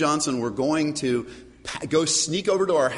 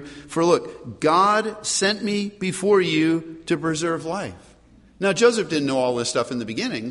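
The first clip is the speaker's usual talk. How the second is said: scripture reading; 3 semitones lower than usual. Acted. Pastor reads Joseph's words to his brothers, measured and grave. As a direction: read Joseph's words with gravity.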